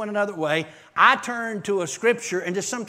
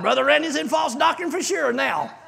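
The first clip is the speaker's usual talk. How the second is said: laughing; 7 semitones higher, 5 dB louder than usual. Real, not acted. Laughing self-mockery.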